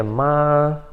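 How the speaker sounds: "ma" held long on one level pitch; sung-out, stretched "ma" with no rise or fall; first tone, sustained. Shown as a demonstration. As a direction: hold "ma" steady as if singing. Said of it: "como se estivesse cantando".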